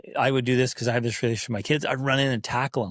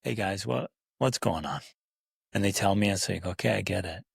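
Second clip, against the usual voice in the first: calm gentle dad; 4 semitones lower, 3 dB quieter than usual. Retold or imitated. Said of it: "once they're down".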